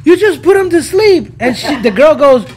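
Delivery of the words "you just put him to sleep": retold excited exclamation.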